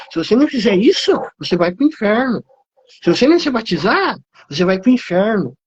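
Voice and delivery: hammed-up finger-pointing threat of hell; threatening preacher.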